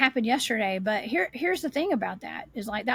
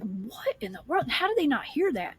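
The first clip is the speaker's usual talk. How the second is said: baffled disbelief; 2 semitones higher than usual. Retold or imitated. Hiker wondering how companions missed the voice, baffled. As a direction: draw out the opening, then pitch up incredulous.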